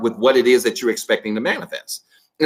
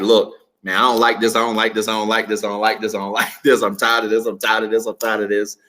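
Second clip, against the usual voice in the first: venting. Retold or imitated. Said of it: "I was venting on him one day and I was like".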